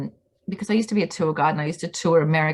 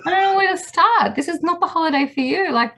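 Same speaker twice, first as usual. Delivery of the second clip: mock pitying sweetheart; 4 semitones higher than usual. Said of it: "And I was like".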